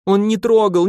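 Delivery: high, loud sobbing protest. Acted. Tearful, insistent denial, stress on трогал. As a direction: Marfusha defends Volga from Kuzma, sobbing high. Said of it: "всхлипнула Марфуша".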